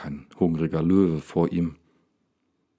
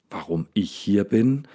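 slightly hysterical. Acted. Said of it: "leicht hysterischen Unterton".

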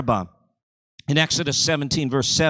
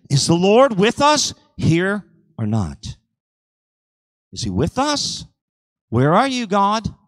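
mildly raised, questioning challenge; doubting challenge; 5 semitones higher than usual. Retold or imitated. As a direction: imitate doubters calling God to account. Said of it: "how did they test him? By saying".

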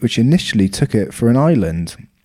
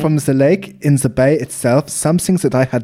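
lightly put-on German accent, storytelling; mock German accent; 5 semitones higher than usual. Reading a German doctor's lake sighting in mock German accent. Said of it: "Should I do the German accent?".

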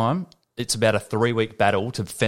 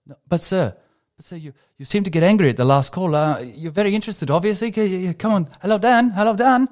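high pleading caller voice, much higher; mocking the scammer's sing-song; mock telemarketer; 9 semitones higher than usual. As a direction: whine at him like the pushy caller. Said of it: "they called me every single night asking me".

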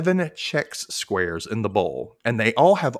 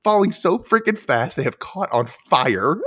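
excited; 5 semitones higher than usual. Real, not acted. Excited description.

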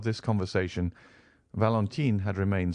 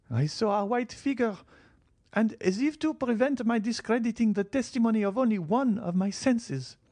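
put-on old lady telling a ghost vision. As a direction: recount the apparition, high and deliberate. Marchioness insists on vision.

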